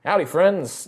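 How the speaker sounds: only a hint of a Southern accent; toned-down Southern. Homeowner corrected to only a faint Southern accent greeting the party. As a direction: soften the Deep South accent to a trace. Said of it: "he doesn't have a fully Deep South accent".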